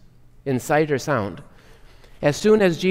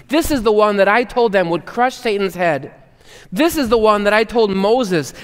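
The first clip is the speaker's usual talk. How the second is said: loud, higher proclaiming voice of God; booming Father; 4 semitones higher, 3 dB louder than usual. Retold or imitated. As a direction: boom it out from heaven with pride. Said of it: "the Father booms from heaven".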